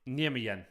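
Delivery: "Nijmegen" as NYEM-ee-yen; trying a pronunciation. Shown as a demonstration. Streamer guessing at a Dutch name, "Nijmegen" as NYEM-ee-yen. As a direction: say "Nijmegen" with a y in place of g. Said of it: "Is that how you pronounce it?".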